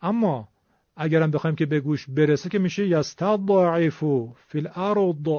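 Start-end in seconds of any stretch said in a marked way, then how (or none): 2.9-5.3 یستضعف and الارض with a jolting qalqala release; echoing zad; bouncing zad. Shown as a demonstration.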